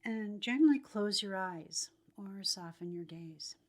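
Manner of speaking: calm, measured phrases, leaving room to breathe; guided meditation. Acted.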